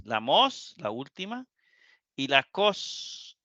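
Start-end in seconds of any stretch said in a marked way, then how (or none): 2.1-3.4 slow syllable naming. Shown as a demonstration. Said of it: "la penúltima".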